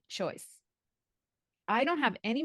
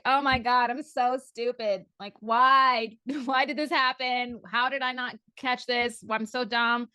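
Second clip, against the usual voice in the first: louder, anguished cry of self-blame; retold distress, a little louder and hammed up; distraught self-blame; 3 semitones higher, 5 dB louder than usual. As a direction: wail at yourself, half laughing. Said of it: "and I'm like".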